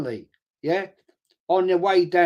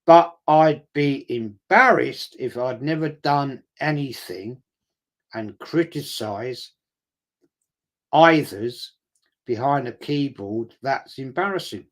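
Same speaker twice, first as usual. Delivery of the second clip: slow, drawn-out mocking echo of the comment; mocking repeat; 2 semitones lower than usual. Repeating a critic's comment back to mock him, slow and scornful. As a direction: drag each word out to ridicule the keyboard critic.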